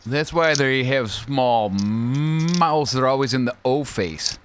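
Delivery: slow, lightly voiced alien. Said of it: "that was my alien voice".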